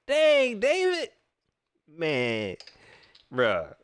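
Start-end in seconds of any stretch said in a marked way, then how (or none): 0.1-1.1 high, louder exasperated exclaim; stunned at the reporter, high-pitched; exasperated dang. Real, not acted. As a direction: throw up your hands at David. Reacting to the question.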